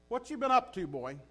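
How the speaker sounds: paraphrase God like a country preacher; casual God. Pretend. God casually asking Satan where he has been. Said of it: "That's what he said".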